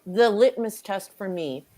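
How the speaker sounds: talking while chewing; mouth full. Real, not acted. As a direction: speak through a mouthful of burger. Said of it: "I hate talking with my mouth full".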